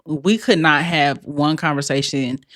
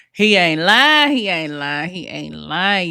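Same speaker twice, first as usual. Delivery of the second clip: emphatic agreement; slower than usual. Real, not acted. Laughing emphatic agreement, slowed.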